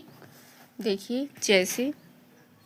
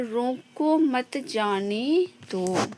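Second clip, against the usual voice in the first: "रोको मत जाने दो" drawn out slowly; slow example reading; much slower than usual. Shown as a demonstration. Teacher reads the third example, slow and drawn out. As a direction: stretch "रोको मत जाने दो", lingering before "दो". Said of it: "वहीं पे तीसरा है".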